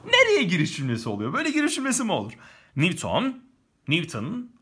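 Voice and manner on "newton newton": Newton said the English way, "nivton"; an English accent on Newton. Shown as a demonstration. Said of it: "Bazen Newton, bazen Newton diyorum".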